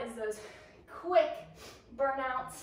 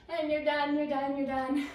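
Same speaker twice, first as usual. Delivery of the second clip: excited celebration; 3 semitones higher, 5 dB louder than usual. Real, not acted. Celebrating the end of set.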